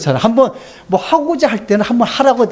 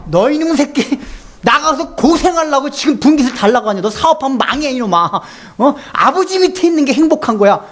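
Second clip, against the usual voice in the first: raised, higher scolding voice of a father; stern father scolding; 5 semitones higher than usual. Retold or imitated. Preacher voicing the father scolding his son, stern raised scold. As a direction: scold the foolish son from above.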